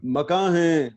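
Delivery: measured ghazal recital with held pauses; mushaira recitation. Acted. Poet opens a ghazal before appreciative listeners, mushaira recitation. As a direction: recite the couplet phrase by phrase.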